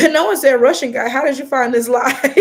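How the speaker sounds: laughing, loud disbelief; amused disbelief. Real, not acted. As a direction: call it out through laughter. Laughing at a chat comment.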